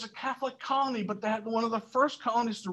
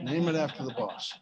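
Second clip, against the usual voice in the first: laughing repeat; 7 semitones lower than usual. Retold or imitated.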